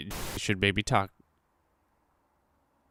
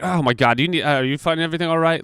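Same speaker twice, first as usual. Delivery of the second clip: mock fake-polite service voice; 6 semitones higher, 4 dB louder, faster than usual. Mocking customers staring while eating.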